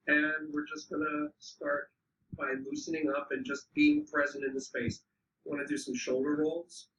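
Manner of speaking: unhurried instructions with long pauses between phrases; guided warm-up. Real, not acted. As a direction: lead a group gently through stretches, leaving time to move. Leads a slow physical warm-up.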